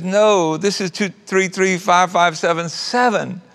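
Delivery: lightly voiced young mom stating "two three three five five seven seven"; a hint of a puzzled daughter correcting a caller; correcting the number. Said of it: "And she says".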